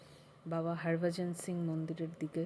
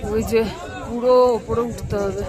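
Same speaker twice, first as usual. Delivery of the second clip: raised voice over the wind; calling out in the cold; loud; 3 semitones higher, 8 dB louder than usual. Real, not acted. Calling out in rain on the mountain.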